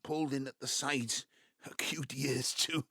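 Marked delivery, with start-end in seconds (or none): 1.4-2.8 laughing fondly. Acted. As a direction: chuckle as you picture her ears. Fond laughing memory of wife.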